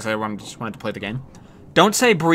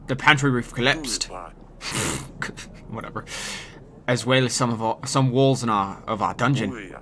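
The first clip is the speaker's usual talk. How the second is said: a lightly put-on West Country English accent; regional English accent; 2 semitones lower than usual. Servant reports roof damage, mild Devon accent. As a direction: read it with a mild Devon burr. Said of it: "That's not a British accent".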